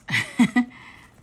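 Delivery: loud delighted gasp into a laugh; excited gasping laugh. Real, not acted. Opening a parcel of stickers, real excited gasp. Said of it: "I don't know why I'm gasping".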